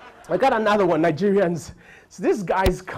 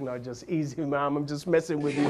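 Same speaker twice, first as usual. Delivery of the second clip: lower, softer soothing; calming; 4 semitones lower, 4 dB quieter than usual. Retold or imitated. Comedian calming the upset English lady, lower and softer. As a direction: gently reassure her.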